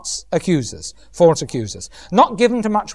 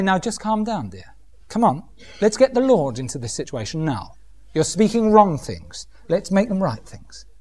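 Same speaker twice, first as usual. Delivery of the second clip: calming elder woman; 4 dB quieter than usual. Retold or imitated. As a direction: gently settle a flustered younger woman. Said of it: "the elder women have got to say".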